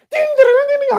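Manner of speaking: very high bell-like ding ding; high chiming bell imitation; ding sounds. Superchats flooding in.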